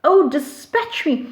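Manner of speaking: a dying man shocked he still lives; surprised. Acted. Antony shocked he is not dead, surprised. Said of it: "and he's surprised".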